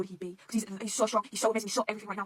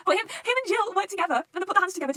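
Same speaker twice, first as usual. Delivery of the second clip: excited gushing; 11 semitones higher, 8 dB louder than usual. Real, not acted. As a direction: gush about the pair teaming up. Excited about favourite pair.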